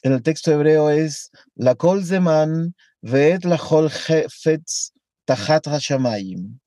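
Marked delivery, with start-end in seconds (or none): 1.6-6.6 slow chanted Hebrew verse, falling low on "hashamayim"; Hebrew recitation. Shown as a demonstration. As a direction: read "la kol zeman ve'et la kol hefetz tahat hashamayim" slowly, reverently. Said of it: "Así suena. Lindo, ¿no?".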